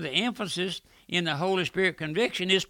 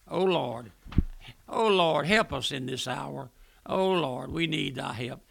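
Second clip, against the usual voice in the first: earnest prayer; 3 semitones lower than usual. Shown as a demonstration. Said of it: "my prayer is".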